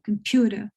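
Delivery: COMPUTER with the stress on PU; middle syllable stressed. Shown as a demonstration. Teacher showing learners which syllable is stronger, COMPUTER stressed on PU. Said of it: "one in the middle is more stressed".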